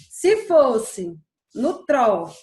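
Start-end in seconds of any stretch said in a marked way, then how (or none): 1.5-2.3 "tró" slow, louder and held; stress on tró. Shown as a demonstration. Teacher trying stress on the last syllable, "tró" held long. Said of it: "se eu passasse mais tempo falando tró".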